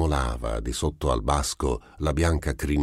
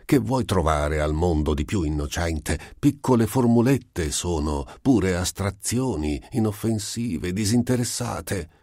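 protesta alta e più forte, in crescendo; irritato; 5 semitones higher than usual. Acted. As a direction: difendi le formule con stizza, voce alta. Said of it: "disse irritato Einstein". (Einstein irritato col diavolo, voce alta e stizzita)

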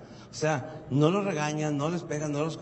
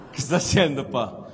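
lightly voiced teenage son, a bit louder; son's voice; 4 semitones lower, 4 dB louder than usual. Son asks dad what he's fixing, mock kid voice. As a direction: ask dad like a nosy kid.

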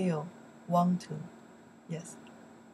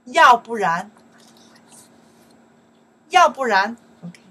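loud drill; 3 semitones higher, 14 dB louder than usual. Shown as a demonstration. Teacher drilling 要不然 for learners, loud. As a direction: model it loud for the class to repeat.

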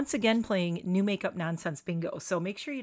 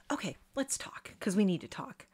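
whisper. Real, not acted. Sigh before serious topic.

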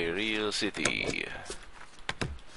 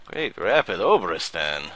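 announced aloud; 6 dB louder than usual. Acted. Inspector reading the city aloud, louder. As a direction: call the city out loud.

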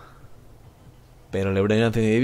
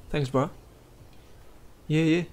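a lightly higher, mocking thanks; mocking squeaky voice; 6 semitones higher, 5 dB quieter, slower than usual. Streamer mocks his giant teammate's voice, mildly higher mock squeak. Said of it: "Tiene la voz súper aguda".

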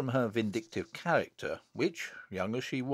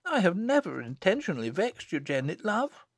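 higher, gentle reassurance; gentle sister; 7 semitones higher than usual. A narrator's reading. Alison to her peevish little sister, gently. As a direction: soothe her lovingly in a lifted voice. Sister soothes cross child.

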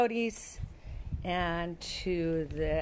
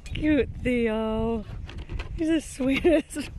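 higher, adoring pet talk; cooing; 4 semitones higher, 5 dB louder, much slower than usual. Real, not acted. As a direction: gush over a sweet animal. Cooing over a pet animal.

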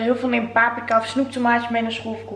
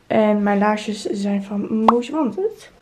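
voice cracking; much slower than usual. Real, not acted. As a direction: voice cracks on Most Wanted. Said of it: "Wow, mijn stem sloeg over".

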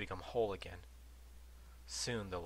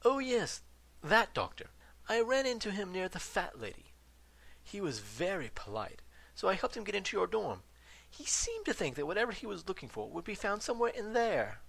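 lightly voiced old ghost; 12 semitones higher, 4 dB louder than usual. Ghost explains cheerfully.

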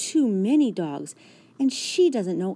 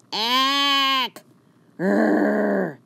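loud squawk then growl; startled yelp; 3 semitones higher, 6 dB louder than usual. A narrator's reading. Fifi yelps as Maurice shakes her. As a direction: caught and shaken.

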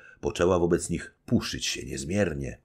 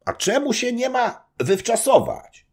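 higher, louder mock-innocent question; teasing old nobleman; 6 dB louder than usual. Old nobleman teasing the young wife, loud. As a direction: play dumb to tease. Zagłoba voiced by reader.

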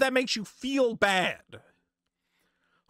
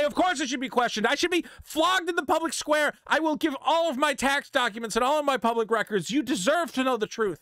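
mock contrite statement; 5 semitones higher than usual. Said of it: "You should say".

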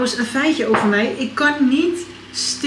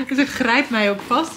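usual speaking voice

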